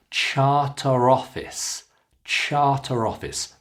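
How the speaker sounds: "Charter office" joined by a sounded r; linked words. Shown as a demonstration. Teacher shows connection, "Charter office" linked by r. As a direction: run "Charter" into "office" as charter-roffice. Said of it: "we can connect them together".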